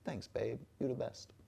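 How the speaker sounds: quiet, gentle thanks from the fiance; soft fiance quote. Retold or imitated. Fiance thanking him for the dishes, softly. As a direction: murmur it sweetly. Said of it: "she'd be like".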